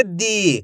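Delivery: "दी" with the ee held long; "दी" as one long, falling syllable; drawn-out long vowel. Shown as a demonstration. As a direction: stretch the vowel in "दी". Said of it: "खींच के पढ़ा जाता है".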